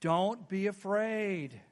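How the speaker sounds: slow, low, booming angel; lightly voiced solemn angel. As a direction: intone it like a mighty angel. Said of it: "what are their first words".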